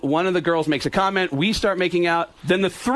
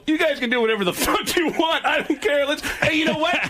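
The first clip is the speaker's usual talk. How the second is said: excited shout; 8 semitones higher than usual. Retold or imitated. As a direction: shout it off happily, pitch way up. Telling the girls to leave, shouting.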